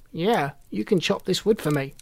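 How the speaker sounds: lightly voiced old hermit; a hint of a creaky old man. A narrator's reading. Hermit answers.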